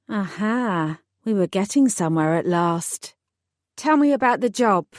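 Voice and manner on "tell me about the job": ordering. Acted. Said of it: "I ordered".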